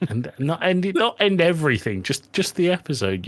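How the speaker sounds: high, rushed backpedal; panicked correction. Real, not acted. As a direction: quickly take it back.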